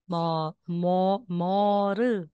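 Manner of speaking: Mo, mo, moro with lips in a smile, teeth apart; smiling Korean r. Shown as a demonstration. Teacher showing the Korean r sound to students. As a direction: model moro with a smile and the teeth not touching. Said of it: "Parang nakasmile kayo".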